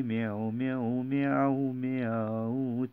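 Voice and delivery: playful meowing like a cat. Acted. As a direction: meow it out for the kids. Rhyme with cat meows.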